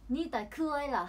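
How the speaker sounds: slow, careful Chinese phrase. Shown as a demonstration. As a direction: sound out the Chinese words slowly. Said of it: "足がもうかわいいで知っとる文章は". (ゆっくり中国語の発音)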